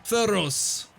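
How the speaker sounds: high, slow booming arena announcer. Acted. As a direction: boom it out over the crowd. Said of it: "you hear a booming voice kind of pierce through the crowd".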